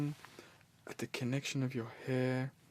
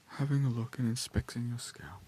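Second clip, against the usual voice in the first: whispering; 3 dB louder than usual. Acted. Soft-spoken scalp check roleplay.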